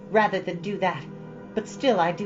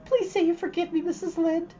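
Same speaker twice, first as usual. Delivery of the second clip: put-on high, dramatic pleading girl; beseeching; 10 semitones higher than usual. Anne on her knees begging Missus Lynde's forgiveness, beseeching. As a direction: throw yourself on her mercy, theatrically.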